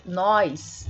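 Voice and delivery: NÓS said as "nóis", with an i-glide before the s; informal nós. Shown as a demonstration. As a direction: say NÓS colloquially, drawn out as "nóis". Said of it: "que seria informal". ("nós" dito como "nóis", informal)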